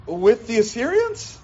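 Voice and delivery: incredulous question, pitched high; acted-out astonished prophet; Habakkuk. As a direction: ask it in disbelief, voice rising. Habakkuk questions God in disbelief.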